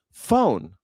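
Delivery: "Phone" drawn out in a Southern accent. Shown as a demonstration. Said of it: "people in the South can't say phone".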